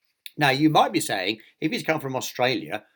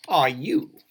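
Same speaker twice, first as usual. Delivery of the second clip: louder, incredulous question; horrified splutter; 3 semitones higher, 5 dB louder than usual. A narrator's reading. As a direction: splutter it in mock horror. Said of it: "spluttered Mister Fussy, looking in horror".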